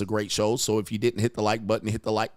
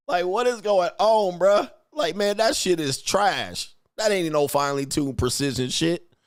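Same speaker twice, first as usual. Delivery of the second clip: disgusted rant; 6 semitones higher than usual. Real, not acted. Mocking the Hellcat's noise, high and outraged. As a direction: pile on the disgust. Ranting about screaming Hellcat.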